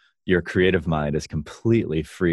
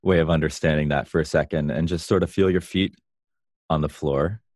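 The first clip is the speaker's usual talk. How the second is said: calm grounding exercise. Shown as a demonstration. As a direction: lead them calmly into their body. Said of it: "Let's, let's do an experiential way".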